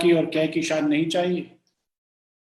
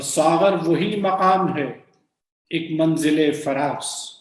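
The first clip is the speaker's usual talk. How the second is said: poem recitation; slower than usual. Acted. Recites the closing couplet.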